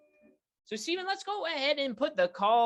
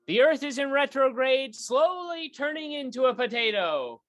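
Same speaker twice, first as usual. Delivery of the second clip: louder, hammed-up talk show opening; show host intro; 3 dB louder than usual. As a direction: welcome the audience like a grand host.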